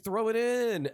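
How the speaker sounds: high cartoon character voice; Mordecai. Cartoon blue jay urging his friend on, high excited voice. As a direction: pitch it up and call it out. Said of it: "And then he's like".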